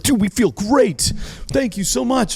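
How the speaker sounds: high, slow gushing thanks; lightly mocking guests gushing thank you; mock grateful guests. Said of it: "They're like".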